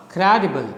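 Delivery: "Credible" stressed on CRE, falling away after it; falling rhythm. Shown as a demonstration. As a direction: hit the start of "Credible", let the rest drop. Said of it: "From up you go down".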